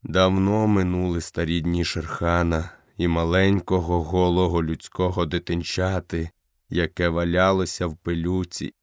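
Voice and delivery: fading leader speaking gently; lightly voiced old wolf, weak and low; dying old wolf.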